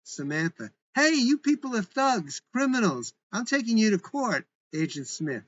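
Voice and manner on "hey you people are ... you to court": angry shout. Acted. Girl shouts at rough agents.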